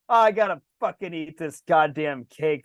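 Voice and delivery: low, slow mock griping; grumbling complaint. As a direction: grumble like you're being forced into it. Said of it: "Who's bitching about eating cake?".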